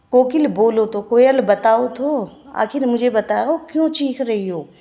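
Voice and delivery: teacher voices the poet urging the koel; poem recitation. Shown as a demonstration. Recites pleading stanza.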